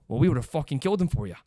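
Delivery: loosely imitated British tough guy; attempted British accent. UK guys to the victim afterwards, bad British accent. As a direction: offer backup in a wobbly British accent. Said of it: "that's my British accent".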